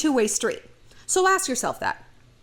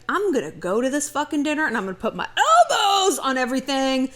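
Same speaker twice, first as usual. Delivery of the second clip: laughing mock quote; 2 semitones higher than usual. Mocking an oblivious bad guest.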